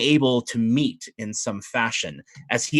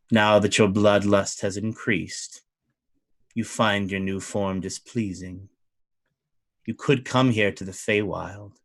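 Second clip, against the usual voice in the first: lightly voiced duke, smooth and persuasive; a hint of a seductive fey lord; tempting fey duke; 4 semitones lower than usual. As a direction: lure him in with a calm offer.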